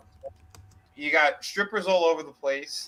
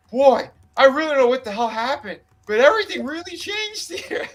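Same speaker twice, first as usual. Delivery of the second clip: high, loud, laughing through it; laughing quote; 8 semitones higher, 5 dB louder than usual. Retold or imitated. Retelling Owen's words to the podcast hosts, laughing as he goes. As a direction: laugh while telling the punchline.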